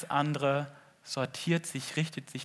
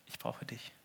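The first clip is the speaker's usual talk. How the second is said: whispered plea; 14 dB quieter than usual. Acted. Whispered prayer of sinking Peter.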